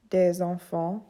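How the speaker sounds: "des enfants" linked with a Z; French "des enfants" with a nasal "en"; liaison Z sound. Shown as a demonstration. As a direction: join "des enfants" smoothly, S voiced as Z. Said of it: "S sound when in a liaison".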